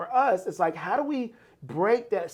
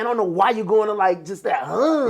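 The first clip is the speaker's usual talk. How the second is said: raised, louder scornful put-down voice; mocking discouraging relative; 3 semitones higher, 5 dB louder than usual.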